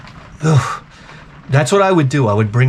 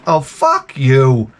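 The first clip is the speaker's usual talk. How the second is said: slow curse; much slower than usual. Acted. Cursing out the AI.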